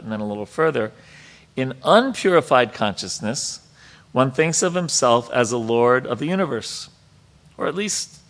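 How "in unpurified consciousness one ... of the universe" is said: emphatic, lifted reading voice; reading scripture aloud. Real, not acted. Teacher reads the purport to the class, emphatic read-aloud. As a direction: read it out with firm stress on key words.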